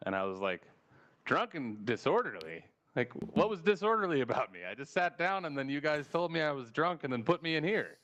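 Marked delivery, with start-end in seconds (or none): 1.2-8.0 indignant protest. Retold or imitated. Arguing with park management over being called drunk, indignant. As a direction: push back in disbelief, mildly indignant. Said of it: "Don't talk to me like that".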